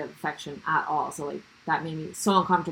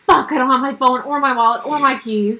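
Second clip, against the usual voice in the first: retold alarm; 5 semitones higher, 6 dB louder than usual. Retelling realizing belongings are missing.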